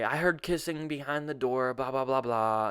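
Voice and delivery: acted-out protest; retold accusation. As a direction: rattle off a re-enacted complaint. Re-enacts accusing her.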